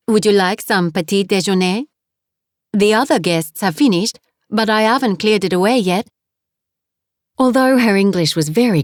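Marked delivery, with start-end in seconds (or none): 0.1-6.1 put-on French accent. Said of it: "her accent was heavy".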